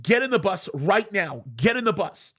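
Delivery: command voice. Retold or imitated. Tour leader ordering a man onto the bus, retold command voice. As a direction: reenact an aggressive order with restraint. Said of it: "Very loud command voice, aggressive".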